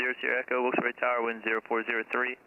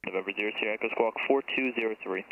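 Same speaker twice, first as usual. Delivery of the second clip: tinny radio transmission; air traffic control radio; faster than usual. Real, not acted. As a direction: voice through a cockpit headset. Tower radio call to the plane.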